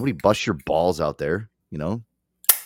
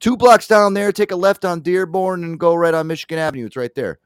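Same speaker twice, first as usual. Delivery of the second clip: helpful stranger giving directions; 8 semitones higher, 3 dB louder than usual. Retold or imitated. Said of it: "Oh, just go".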